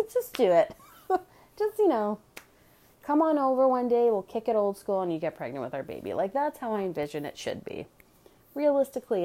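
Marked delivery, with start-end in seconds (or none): 0.1-3.9 louder, pushing just do it; loud playful insistence; emphatic urging. Retold or imitated. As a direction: press them, half laughing. Urging friends to carry baby.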